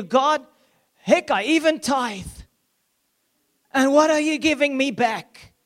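lightly voiced bitter son; resentful older son. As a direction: protest like a wronged elder brother. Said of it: "But he replied".

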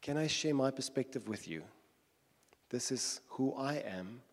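lightly voiced Jesus, calmly explaining who he is; gentle and patient. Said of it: "Gently, gently, and then slowly going".

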